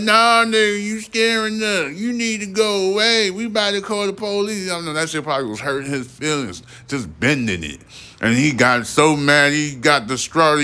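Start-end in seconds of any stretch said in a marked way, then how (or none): 0.0-4.7 put-on very high squeaky kid voice; mock them like a bratty child; taunting kids. Children teasing the man away, very high squeaky mock voice.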